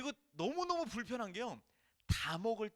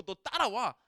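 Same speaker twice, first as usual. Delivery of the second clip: loud, forceful orders; a hammed-up domineering God who won't hear no; mock bossy command; 5 dB louder than usual. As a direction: bark it like dragging someone by the collar. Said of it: "그렇게 말씀하지 않으시고요".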